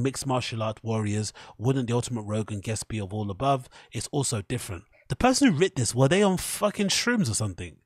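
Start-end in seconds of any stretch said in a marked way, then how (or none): 5.1-7.8 much higher, louder disbelief; can't believe what you read; high incredulous outburst. Real, not acted. Mocking the writer's prose.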